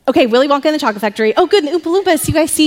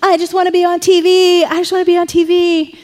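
higher, lightly mocking cowboy kid; lightly voiced cowboy kid; 5 semitones higher than usual. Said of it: "he's the cowboy guy".

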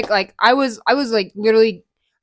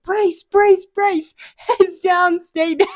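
mock pilot command; 9 semitones higher, 4 dB louder, much slower than usual. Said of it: "they go".

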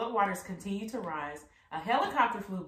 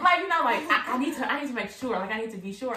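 high, loud anxious insistence; hammed-up insecure plea; mock anxious whine; 6 semitones higher, 8 dB louder than usual. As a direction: overplay the needy doubter. Mocking anxious believer.

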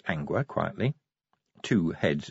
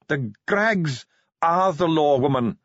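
snapped; 7 semitones higher, 5 dB louder than usual. Acted. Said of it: "Ardent snapped".

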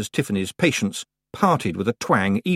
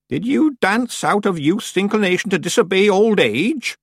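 put-on high-pitched old witch, solemn questioning; raised, emphatic crone voice; stern old witch; 9 semitones higher, 4 dB louder than usual. A narrator's reading. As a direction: lecture the young apprentice gravely. Miss Treason voiced in narration.

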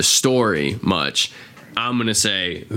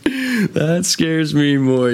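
higher, louder, very slow and drawn-out; hammed-up Alfie quote; 8 semitones higher, 4 dB louder, much slower than usual. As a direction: stretch every word out like a menacing gangster. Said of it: "Yeah, he's like".

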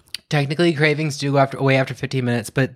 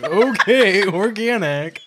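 eye-rolling sarcasm; 3 semitones higher, slower than usual. Retold or imitated. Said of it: "rolls his eyes like".

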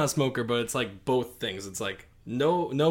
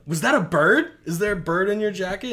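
mock suspicious surprise; 8 semitones higher, 9 dB louder than usual. Man suspects bird in jacket.

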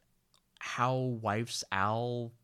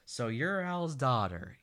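put-on drunk slurring; 3 semitones higher, 4 dB louder, slower than usual. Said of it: "drunkenly swaying".

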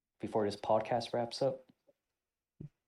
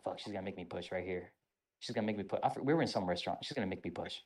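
dread; 4 semitones lower, 6 dB quieter, faster than usual. Retold or imitated. Inner thought, dreading pushups.

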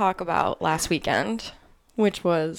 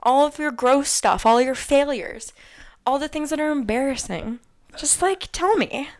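excited; 6 semitones higher than usual. Real, not acted. Urging listeners excitedly.

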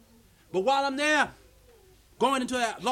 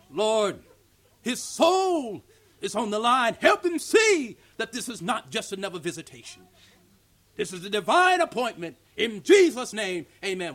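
louder, slow, urgent prayer; real prayer; 6 dB louder, slower than usual. Shown as a demonstration. Preacher showing the real prayer, loud and urgent. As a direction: pray like his soul depends on it. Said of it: "You get real".

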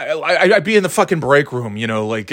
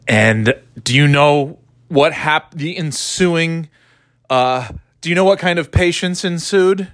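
slow stumbling; 3 semitones higher than usual. Real, not acted. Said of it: "That's what I'm trying to say".

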